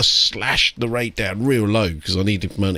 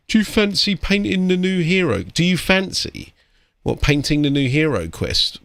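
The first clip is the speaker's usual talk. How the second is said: high, chirpy mock customer asking a favour; 9 semitones higher than usual. Mock client pitching the Hero Quest job, high and chirpy. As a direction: mimic the cheeky client, pitched way up. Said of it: "They went".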